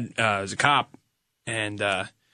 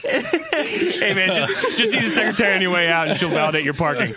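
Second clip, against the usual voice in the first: therapist voice; 7 semitones higher, 4 dB louder than usual. Pretend. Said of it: "my fucking therapist".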